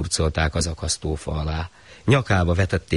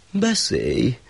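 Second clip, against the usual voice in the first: high condescending permission; the shah granting leave to speak; lofty gracious ruler; 6 semitones higher than usual. Acted. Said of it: "mondta kegyesen a sah".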